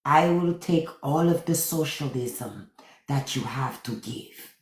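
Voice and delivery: a lightly voiced, breathy swoon that fades to nothing; mock-swooning Melania, trailing off. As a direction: melt as you say it and let the end drop away. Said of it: "And Melania like".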